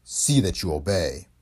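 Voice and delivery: mild growl, slow and low. Acted. De Leon growling a warning at her door. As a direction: growl the order. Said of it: "he growled".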